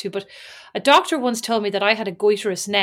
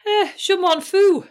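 French phrase; 8 semitones higher, 3 dB louder, slower than usual. Pretend. Playful reply in French.

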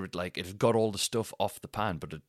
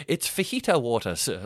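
retold calling down; 3 semitones higher, 6 dB louder than usual. Culprit explaining to the man below, raised voice. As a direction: call it down from a window. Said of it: "I can't shout down".

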